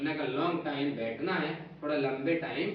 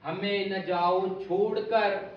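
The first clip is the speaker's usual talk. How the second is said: pleading plea; slower than usual. Retold or imitated. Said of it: "बोले".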